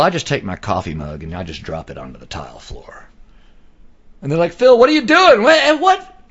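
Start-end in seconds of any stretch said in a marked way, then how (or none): 4.5-6.2 much higher and louder startled cry; mock alarmed shout. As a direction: yelp it like they just jumped. Friends react to dropped mug.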